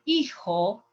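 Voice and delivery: "hijo" said as EE-ho, H dropped; silent H. Shown as a demonstration. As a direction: start "hijo" straight on the ee vowel. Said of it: "Don't pronounce the H".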